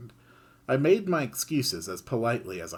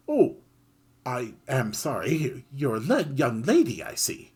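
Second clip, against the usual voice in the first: little mouse voice; 3 semitones higher than usual. Acted. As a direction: call out politely, tiny creature. Mouse apologizes.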